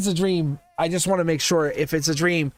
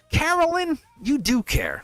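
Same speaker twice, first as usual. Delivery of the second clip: teasing; 9 semitones higher than usual. Acted. Teasing Carolyn in sing-song.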